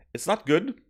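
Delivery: a quick whispered confession; whispered aside. Real, not acted. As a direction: whisper it, half-joking. Self-critical aside.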